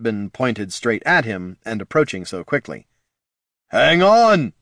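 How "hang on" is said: loud, high shout. Acted. Jin warning the falling heroes, shouting. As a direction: yell the warning, pitched up. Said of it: "shouted Jin".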